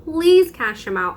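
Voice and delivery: high, drawn-out begging; pleading. Retold or imitated. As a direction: beg the coworker to take him over. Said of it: "I would have to beg".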